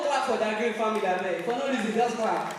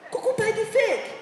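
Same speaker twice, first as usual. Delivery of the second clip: pitched way up with a different voice on Kuku buy the fake; high mocking repeat; 9 semitones higher than usual. Shown as a demonstration. Comic mocks jersey buyers with a high repeat.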